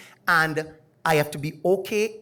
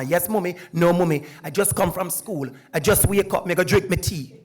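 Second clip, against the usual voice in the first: Jamaican dialect; 3 dB louder than usual. Retold or imitated. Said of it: "I speak to her like I speak to my mama".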